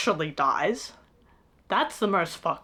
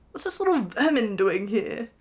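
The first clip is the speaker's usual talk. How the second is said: sneering dragon voice; 3 semitones higher than usual. Retold or imitated.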